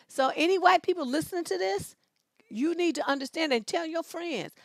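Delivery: usual speaking voice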